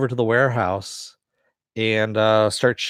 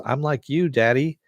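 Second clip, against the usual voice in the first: lightly voiced little boy, pitched up; a hint of a child proudly telling his daddy; higher, mildly childlike retelling; young son; 5 semitones higher than usual. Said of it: "And the son goes".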